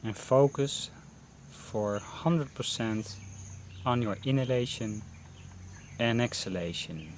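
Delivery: unhurried meditation guidance with long pauses; guided meditation. Real, not acted. Teacher leading beginners through a mindfulness breathing session, guided meditation voice. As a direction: guide them gently into breath focus, pausing between phrases.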